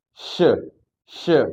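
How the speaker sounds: SH said as "shuh"; sh plus vowel. Shown as a demonstration. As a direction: open the SH into a schwa. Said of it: "kita tambahin vokal".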